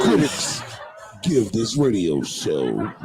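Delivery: movie trailer voice. Acted. Mock trailer narration, slow.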